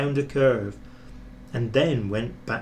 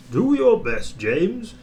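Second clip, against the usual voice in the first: kindly; 8 semitones higher, 4 dB louder than usual. A narrator's reading. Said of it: "said the fat controller kindly".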